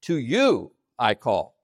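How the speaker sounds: "you" peaks, then "I call" drops; emphasis on TO YOU. Shown as a demonstration. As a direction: set "To you" apart with weight on "you". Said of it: "It's emphasizing the "to you".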